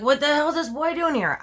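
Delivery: high-pitched indignant outburst, imitating mom; pissed mom. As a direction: retell an angry mom's outraged demand. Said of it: "and she was pissed".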